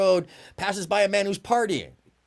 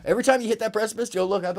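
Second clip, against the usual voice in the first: fervent urging; 8 semitones higher, 6 dB louder than usual. Real, not acted. Urging the audience.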